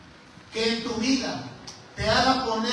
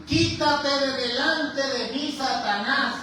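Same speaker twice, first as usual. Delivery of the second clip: stern rebuke; 4 semitones higher, slower than usual. Retold or imitated. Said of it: "volviéndose dijo a Pedro".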